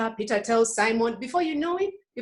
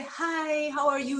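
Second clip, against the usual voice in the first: higher, lightly acted friendly hello; patient greeting; 5 semitones higher, slower than usual. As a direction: greet the kids with forced patience.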